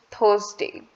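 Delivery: slow Indian English Thursday, R dropped. Shown as a demonstration. Teacher shows Indian English Thursday, slowly. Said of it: "according to the Indian English".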